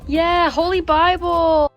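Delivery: loud, high, slow cheer; triumphant. Real, not acted. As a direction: proclaim it like a discovery. Finds a Bible in the room.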